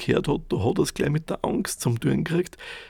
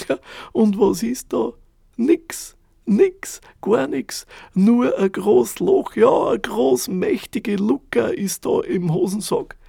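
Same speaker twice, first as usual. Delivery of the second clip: astonished; 8 semitones higher, 5 dB louder, slower than usual. A narrator's reading. Narrator's astonished discovery.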